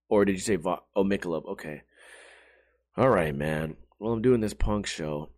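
low, lazy dude voice fading to a mumble; low mellow bartender voice; Brady impression. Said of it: "Let me do a Brady impression".

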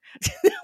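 a sudden, very high and loud yelp of a laugh; shocked laugh. Real, not acted. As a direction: burst out laughing in disbelief. Shocked by Cal's line.

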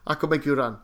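put-on insistent chef in a light Afrikaans-like accent; Mehmet, accidental Afrikaans accent. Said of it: "I sound Afrikaans when I was doing that impersonation".

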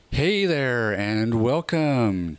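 slow, husky rock singer intro; a rock singer's voice. Acted. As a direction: drag it out like a rock star. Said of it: "There's the rock singer voice kicking in".

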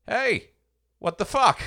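hammed-up outraged cry at God; mock outrage. Dead preacher confronting God in heaven, mock outraged shout.

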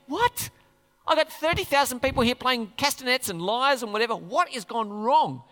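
high, indignant outburst; a bewildered angry protest; angry David. Retold or imitated. David complaining to God about the disaster, indignant high outburst. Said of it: "David's angry".

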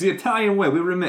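put-on high-pitched, botched Italian accent; bad Italian accent. Lamborghini promising the Italian way, in bad Italian accent. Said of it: "is that an Italian accent?".

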